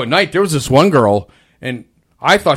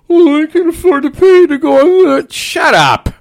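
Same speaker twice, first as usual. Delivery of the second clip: coworker wisecrack; 13 semitones higher, 4 dB louder than usual. Retold or imitated. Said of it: "my wise guy's like".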